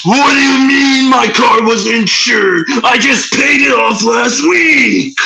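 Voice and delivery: slow, shouted villain rant; Goldar voice. Retold or imitated. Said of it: "I'll do Goldar".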